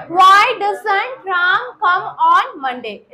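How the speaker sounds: very slow, word-by-word English; teacher dictating slowly; slow drill model. Shown as a demonstration. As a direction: space out each word for learners to repeat. Models sentence for class to repeat.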